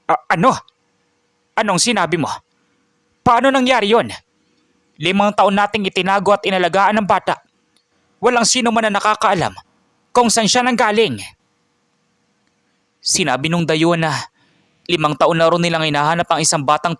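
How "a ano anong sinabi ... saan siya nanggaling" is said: high, agitated questioning; alarmed disbelief. Acted. Grandfather hearing the secret is out, alarmed. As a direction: stammer in shock, then protest at raised pitch.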